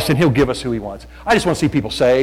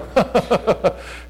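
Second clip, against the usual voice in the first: imitated laugh; 7 semitones higher than usual. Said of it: "We look at ourselves and go".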